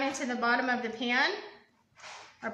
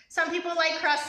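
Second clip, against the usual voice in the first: laughing lightly, a little higher; 4 semitones higher than usual. Real, not acted. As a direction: chuckle then laugh through the words. Laughs at own remark.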